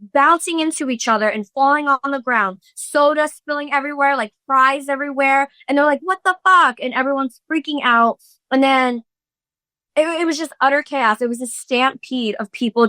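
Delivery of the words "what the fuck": much higher, startled exclamation; retold alarm. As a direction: imitate people caught in shock. Voicing panicked moms in a stampede.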